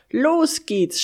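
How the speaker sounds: high, loud start signal; excited shout. A narrator's reading. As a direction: shout it out, raring to go. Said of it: "schrie er". (begeistert und laut losrufen)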